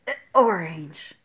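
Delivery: low, very slow "A orange" as if gagging on the vowel clash; choking wrong form. Shown as a demonstration. Teacher mimicking choking to show the wrong article. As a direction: squeeze "A orange" out like you are choking. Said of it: "تتعرض للاختناق".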